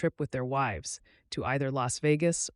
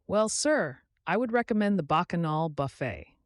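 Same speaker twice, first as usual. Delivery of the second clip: a hint of a businesslike receptionist; lightly voiced desk clerk; 2 semitones higher than usual. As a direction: read the bill out politely. Sarah recommends the buffet.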